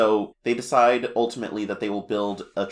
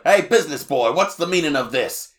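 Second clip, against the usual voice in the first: high, loud blustering complaint; hammed-up angry king scolding a salesman; lightly voiced cartoon king griping, laughing at the end; King Dedede voice; 5 semitones higher, 6 dB louder than usual. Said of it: "D D D says all of these things".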